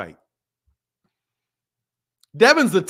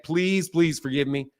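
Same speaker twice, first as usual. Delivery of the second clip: soft, slow plea; gentle, unhurried apology; pleading; 4 semitones lower, 7 dB quieter, slower than usual. Pretend. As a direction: beg softly and slowly, lower. Repeated playful apology to the viewer.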